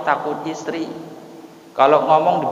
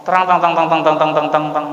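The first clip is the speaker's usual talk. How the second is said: mock thunder chatter; 2 semitones lower, faster than usual. Preacher mimics a nagging wife's voice as light mock thunder. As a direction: rattle off tang tang like nonstop nagging. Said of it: "Suaranya kayak petir".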